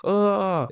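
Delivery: high, softened scream of pain; drawn-out, high "aah", kept quiet; mock pained scream. A narrator's reading. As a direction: narrate a scream without the volume. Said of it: "بين بيصرخ".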